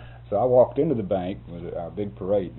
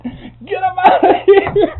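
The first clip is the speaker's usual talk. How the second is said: slow, drawn-out, much louder and higher yell; 16 dB louder, much slower than usual. Retold or imitated. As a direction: stretch the yell out so it echoes. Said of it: "They just yelled it out".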